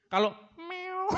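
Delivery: high, slow drawn-out meow; cat meow imitation. Shown as a demonstration. Preacher imitates a cat for the congregation, high and drawn out. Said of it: "contoh suara".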